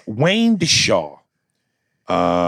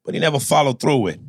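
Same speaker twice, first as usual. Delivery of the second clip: Jersey Italian mobster. Acted. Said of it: "My name is Tommy Pescatelli, fucking Italian from Jersey".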